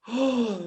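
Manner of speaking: acted gasp of shock; surprised gasp. Two friends meeting by surprise in the army, acted shocked gasp. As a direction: gasp as if you just recognized someone. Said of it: "둘 다 막 완전 놀란 표정을".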